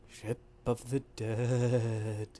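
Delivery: slow, drawn-out ominous reveal; slow mock-spooky narrator; ominous announcement. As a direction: stretch it out spookily. Dramatic announcing of a ghost ship.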